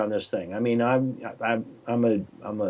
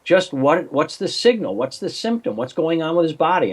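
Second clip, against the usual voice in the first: quoting himself; 5 semitones higher than usual. Retold or imitated. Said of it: "Well, she says".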